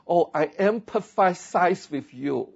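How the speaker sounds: slow showy sympathy in a polished foreign tone; cultured mock phrasing. Shown as a demonstration. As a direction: say it like you're showing off your refinement. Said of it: "你的同事觉得你很有文化了哈".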